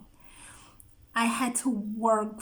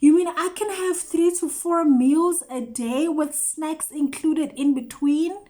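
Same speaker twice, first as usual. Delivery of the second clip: amazed disbelief; 2 semitones higher, 3 dB louder than usual. Real, not acted. Marvelling at new life.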